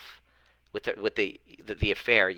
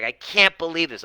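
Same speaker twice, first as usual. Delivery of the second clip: higher-pitched imitation of crying disbelief; mock crying; 7 semitones higher, 4 dB louder than usual. Coach retelling a client's breakthrough, mock tearful.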